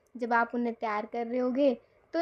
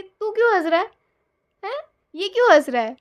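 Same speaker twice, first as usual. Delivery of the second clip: mock scolding relatives, a bit higher and louder; teasing relatives; 6 semitones higher, 7 dB louder than usual. Relatives teasing the laughing husband outside, mock scolding. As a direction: tease him like nosy family members. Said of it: "सब लोग कह रहे हैं कि".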